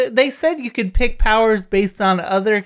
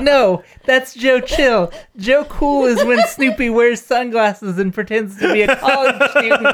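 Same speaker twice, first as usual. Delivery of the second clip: laughing through the quote; 3 semitones higher than usual. Retold or imitated. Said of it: "And Ivy's like".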